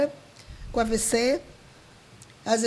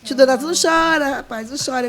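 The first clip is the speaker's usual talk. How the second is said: raised, louder mock pleading not to cry; higher retold plea, easing off at the end; imitated urging; 3 semitones higher, 3 dB louder than usual. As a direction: act out an insistent call to stop crying. Retold consoling of weeping father.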